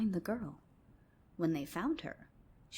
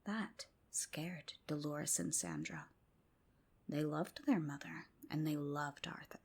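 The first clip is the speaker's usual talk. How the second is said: whispered storytelling. A narrator's reading. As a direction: hush it like a secret at bedtime. Whispered bedtime tale.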